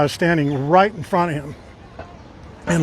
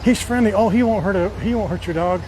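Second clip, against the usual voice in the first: higher mock owner voice, light and breezy; mocking dog owners; 3 semitones higher than usual. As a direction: parody a clueless dog owner, pitched up. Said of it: "They always say the same thing".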